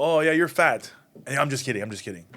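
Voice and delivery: half-committed jab with a quick apologetic retreat; unconvinced joke delivery. Shown as a demonstration. Comedian showing a badly sold joke, unconvinced. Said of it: "You don't believe in it".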